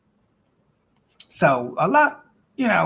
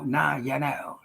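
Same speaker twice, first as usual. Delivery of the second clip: whispered aside; 6 dB quieter, slower than usual. Real, not acted. Catchphrase aside.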